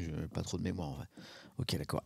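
ordinary talk, nothing marked

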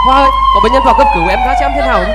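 calling out loud and fast for the nurse; urgent shout across the ward. Acted. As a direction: shout down the corridor, quick. Doctor calls nurse for emergency.

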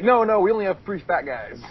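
mock receptionist voice. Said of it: "You're like".

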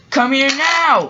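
loud, high-pitched command; sharp order. Acted. Diesel orders Samson over.

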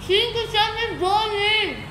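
cheeks stuffed full. Real, not acted. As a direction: mouth crammed with marshmallows. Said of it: "Tô babando".

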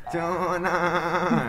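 high, slow eunuch call. Shown as a demonstration. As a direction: stretch out the ending like a court eunuch. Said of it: "끝을 이렇게 해야 돼요".

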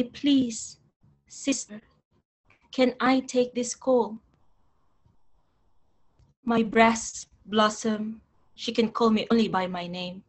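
measured poem reading with deliberate pauses; poetry recitation. Acted. Poet reading a poem about mother to an audience, measured recitation. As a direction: recite in spaced, weighted phrases.

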